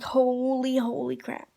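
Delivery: drawn-out, stunned "holy crap"; stretched-out mock disbelief; retold freak-out. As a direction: act out freaking out, stretching the first word. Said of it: "like, freaking out".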